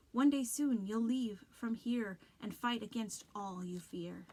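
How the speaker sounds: eerie ominous warning; creepy voice. Acted. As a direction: lean in and haunt him. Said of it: "his voice suddenly normal, not as creepy".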